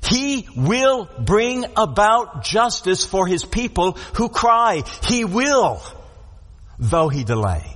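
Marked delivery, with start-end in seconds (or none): 0.0-5.8 WILL stressed in a slow, deliberate promise; emphatic promise. Retold or imitated. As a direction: lean firmly on "He will", taking it slowly. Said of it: "caused him to make this emphatic".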